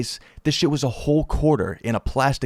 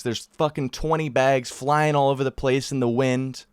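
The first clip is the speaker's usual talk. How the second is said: ordinary talk, nothing marked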